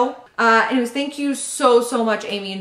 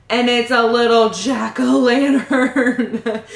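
slower, louder, laughing through the words; laughing with delight; 4 dB louder, slower than usual. Real, not acted. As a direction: giggle it out, charmed by the tiny pumpkin. Delighted by spooky baby gift.

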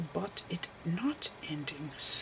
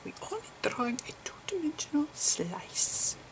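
whispered lecture. Acted. Lecturer explaining photon slices to viewers, whispering.

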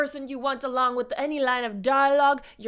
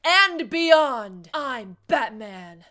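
slow heroic voice; 3 semitones lower, 4 dB louder, slower than usual. Acted. Impression request video.

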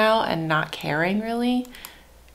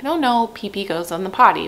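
calm, matter-of-fact. Shown as a demonstration. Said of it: "just very calmly".

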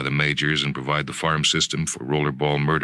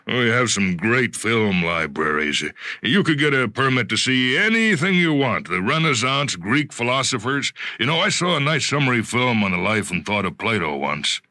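higher, wistful boss voice with regret; lightly voiced executive; 6 semitones higher than usual. Bartholomew lamenting lost books to Jonathan, mildly wistful. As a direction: muse over the lost books, then offer help.

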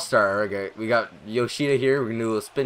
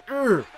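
grunt; 12 semitones higher, 3 dB louder than usual. Real, not acted. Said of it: "I make fucking weird-ass grunting noises".

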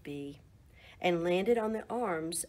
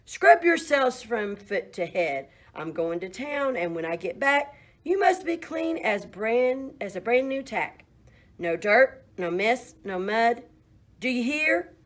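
stern farmer; 2 semitones higher, 4 dB louder than usual. Acted. Farmer scolds animals before leaving.

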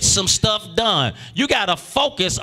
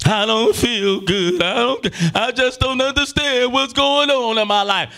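mimicked complaint; 4 semitones higher than usual. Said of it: "voicing a troubled believer".

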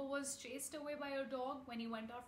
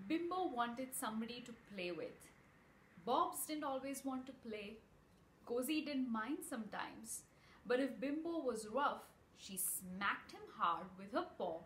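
put-on bright read-aloud voice for children; storybook reading to kids; story narration. A narrator's reading. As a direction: tell it like a bedtime story.

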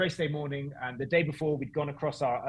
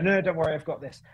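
lightly Welsh, louder start; Welsh accent; 4 semitones higher, 5 dB louder than usual. Retold or imitated. Race director reassures the driver at the water, Welsh accent. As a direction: put on a Welsh lilt. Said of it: "That was a great Welsh accent".

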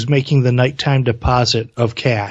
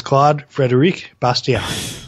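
slow, careful French pronunciation of the name; near-French accent; slower than usual. Real, not acted. Co-host naming the author quoted, light French accent. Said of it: "almost said it in a real French accent".

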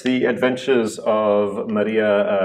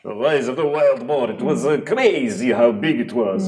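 a lightly voiced boasting king; boastful king; 4 semitones higher than usual. King bragging to his bride about hunts, lightly voiced. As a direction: brag about the boar, a touch higher. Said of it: "telling her stories about his hunts".

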